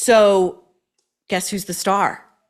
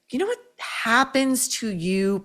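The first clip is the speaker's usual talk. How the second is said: mock quote; 4 semitones higher than usual. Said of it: "And she says".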